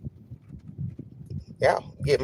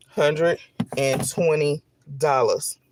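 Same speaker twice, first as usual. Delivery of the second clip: slow disbelief; slower than usual. Real, not acted. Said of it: "trying not to get emotional".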